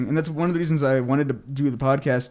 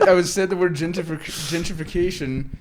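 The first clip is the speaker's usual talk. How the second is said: robot voice; 4 semitones higher, 4 dB louder than usual. Retold or imitated. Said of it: "in a robot-y voice on accident".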